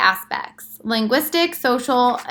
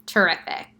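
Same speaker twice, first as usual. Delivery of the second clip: sarcastic; 3 semitones lower than usual. Shown as a demonstration. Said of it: "your reaction would be to say something like".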